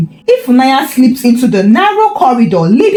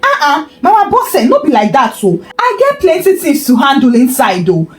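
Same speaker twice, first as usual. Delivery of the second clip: stammering excuse; 3 semitones higher than usual. Acted. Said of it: "Tony stammered".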